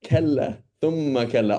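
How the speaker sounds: a hint of a stern parent's rebuke; scolding parent. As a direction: tell it to a child who isn't getting it. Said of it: "This is the voice of your parent".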